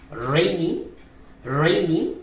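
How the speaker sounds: রেইনি said rei-ni with a clear diphthong; রেইনি, rising, careful; correct English pronunciation. Shown as a demonstration. Teacher models the word for students, careful রেইনি. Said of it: "এরপর রয়েছে".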